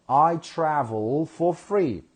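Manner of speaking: "I travel for free" slowly, each word set apart; pronunciation model. Shown as a demonstration. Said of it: "do not say travel".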